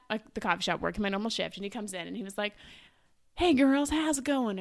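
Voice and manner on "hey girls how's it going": higher, louder Southern greeting; Southern accent. Retold or imitated. Coffee customer greeting young baristas, Southern accent. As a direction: mimic a Southern man hailing the girls. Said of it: "Is he Southern".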